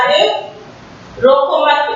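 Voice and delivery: "अरे", short break, then "रोको मत" run together; pause after मत. Shown as a demonstration. Teacher reading the second line to children, "रोको मत" as one phrase. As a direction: join "मत" straight onto "रोको". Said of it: "यदि इस चिन्ह को हमने यहाँ".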